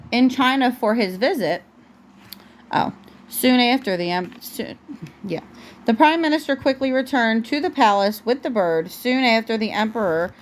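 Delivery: gentle storybook read-aloud; picture-book narration for a toddler; reading to a child. Acted.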